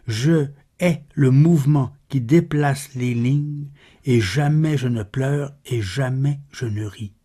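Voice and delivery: measured, solemn verse reading with pauses; poem recitation. Acted. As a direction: recite the verse evenly, pausing between phrases. Recites a poem after spoken introduction.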